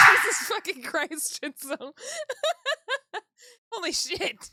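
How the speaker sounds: high, loud swearing after a jump scare; real fright breaking into hysterical laughter; terrified. Real, not acted. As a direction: gasp out curses, shocked and half laughing. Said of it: "that was terrifying".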